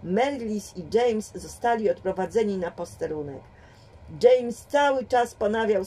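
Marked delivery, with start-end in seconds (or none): none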